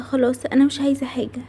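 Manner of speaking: whispered, giving up sadly. Acted. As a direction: let it fall to a sad whisper. Sad child giving up. (همس حزين)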